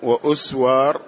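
وأسوار as "wa-uswaar", hamza carrying U; damma on hamza. Shown as a demonstration. Student reading out the third form, وأسوار with damma on hamza. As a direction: say وأسوار with a short u before the s. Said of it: "بضم الهمزة".

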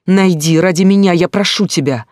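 high, loud desperate begging; hysterical plea. Acted. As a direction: beg him as if your life depends on it. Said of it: "У меня началась истерика".

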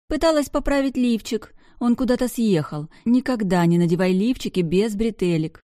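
high, loud tipsy whine; tipsy giggly complaint. Acted. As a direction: complain giggling, a bit drunk. Drunk girl complaining.

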